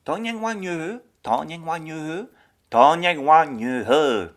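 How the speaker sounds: Vietnamese tried again and again with a French accent; learner repeating. Shown as a demonstration. Host struggles with the Vietnamese, French-accented. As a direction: keep retrying the tones on ngoại. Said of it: "écouter des langues".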